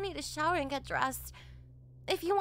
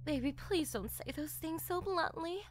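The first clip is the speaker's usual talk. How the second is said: a lightly lowered, teasing mother's voice; teasing mom. Acted. Mother teasing her daughter in front of the boyfriend, lightly lowered voice. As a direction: play the amused mother scolding her daughter.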